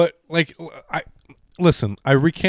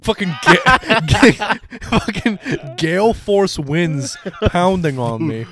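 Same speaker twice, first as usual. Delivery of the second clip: mock panicked whine; 7 semitones higher, slower than usual. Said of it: "You literally were like".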